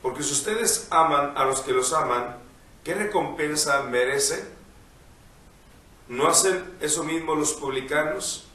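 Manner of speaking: measured liturgical reading voice; gospel reading. Acted. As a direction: read the Gospel aloud, unhurried. Priest reads the Gospel.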